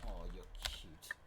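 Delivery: lightly voiced slow cooing; a hint of soppy cooing; cutesy voice. Shown as a demonstration. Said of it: "exactly how I sound in real life".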